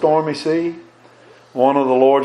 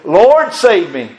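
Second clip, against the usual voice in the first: higher, drawn-out plea to the Lord; crying out; 4 semitones higher, 4 dB louder, slower than usual. Acted. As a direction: stretch it out like a preacher's cry for help. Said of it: "he cried".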